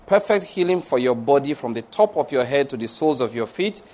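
measured, solemn benediction; deliberate prayer cadence; pastoral prayer. Real, not acted. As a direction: pronounce a scripture blessing in even phrases. Continues benediction.

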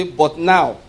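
"But now" with the weight on "now" and a falling end; a clear cue for the congregation to echo; stressed but now. Shown as a demonstration. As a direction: lead the church in saying "But now". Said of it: "please again, let's say".

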